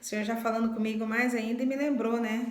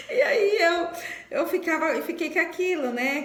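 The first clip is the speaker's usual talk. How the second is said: crying; 6 semitones higher, 5 dB louder than usual. Real, not acted. Daughter recalling the forgiveness she owed her mother, real crying. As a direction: voice breaking into real tears, higher and louder.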